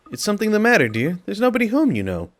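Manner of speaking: nosy old neighbour, lightly voiced; chatty old lady voice; gossipy old woman.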